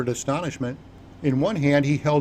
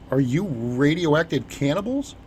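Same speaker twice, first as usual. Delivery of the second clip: slow, halting, only mildly frightened; terrified stammer. Acted. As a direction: stammer it out, a touch scared. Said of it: "it was in a terrified stammer".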